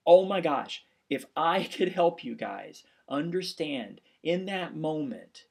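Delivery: loud, slow, overwhelmed exclamation; bursting out with feeling; emotional outburst. Real, not acted. Emotional outburst after the sad story.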